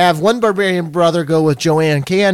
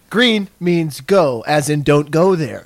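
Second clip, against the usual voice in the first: slow, deadpan Michael Scott logic; Michael Scott impression; slower than usual. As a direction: lay it out slowly like a clueless boss. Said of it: "the way that fucking Michael Scott".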